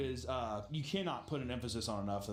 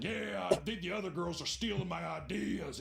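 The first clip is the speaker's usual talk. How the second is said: mock petty whine; 5 semitones higher than usual. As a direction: complain like a petty rival. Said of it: "Whitney's like".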